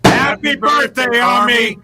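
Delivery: shouted, slow and high; loud shout. Real, not acted. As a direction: belt it out, fully motivated. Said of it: "you can't hold back".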